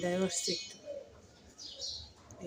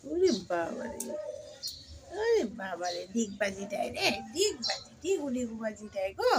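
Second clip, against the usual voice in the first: amused, half-laughing exclaim; laughing delight. Real, not acted. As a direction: marvel at the somersault, laughing. Laughing at cat's somersaults. (হাসতে হাসতে অবাক হওয়া)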